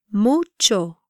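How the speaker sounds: "Mucho" with a lengthened u; careful pronunciation demo. Shown as a demonstration. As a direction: draw out "Mucho" slightly for learners. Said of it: "try pronouncing these words".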